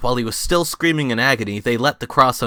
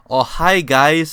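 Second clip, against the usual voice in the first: higher, louder cheery Wiseau greeting; Tommy Wiseau greeting; 5 semitones higher, 5 dB louder, slower than usual. Acted. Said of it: "said Tommy Wiseau".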